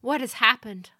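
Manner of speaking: lady demanding news. A narrator's reading. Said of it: "Altun Sarnai demanded".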